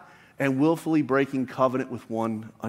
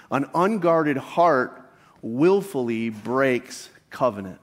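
slow emphatic statement. Shown as a demonstration. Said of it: "the key point could simply be stated as this".

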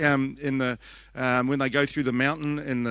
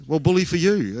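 higher, louder sarcastic congratulation; mock-resentful sarcasm; 4 semitones higher, 5 dB louder than usual. Mother hearing her son met Jesus, playfully sarcastic. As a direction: toss it out like a jealous rival.

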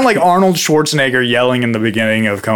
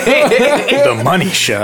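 slow drawn-out repeat; 8 semitones higher, much slower than usual. Pretend. Echoing the phrase slowly.

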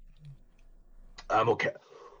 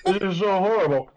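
pained laughing; 6 semitones higher, 5 dB louder than usual. Real, not acted. Groaning from chip heat.

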